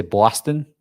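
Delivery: "Boston" in a put-on New York style; mistaken Boston accent. Shown as a demonstration. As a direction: try a wrong Boston accent on "Boston". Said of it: "this is really b-, wrong".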